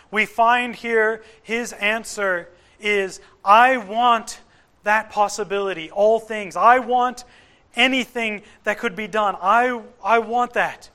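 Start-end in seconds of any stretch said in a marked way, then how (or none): 3.4-10.9 pleading father. Retold or imitated.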